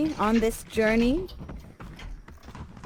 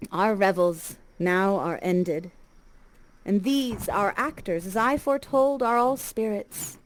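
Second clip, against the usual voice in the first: measured, reflective reading of the closing speech; Shakespeare recitation. Shown as a demonstration. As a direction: let each image land with pauses. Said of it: "end the play with Shakespeare's beautiful words".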